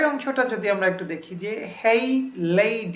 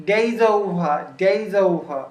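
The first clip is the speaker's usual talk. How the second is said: fast linked; 5 dB louder, much slower than usual. Shown as a demonstration. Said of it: "খুব দ্রুত বলেছে".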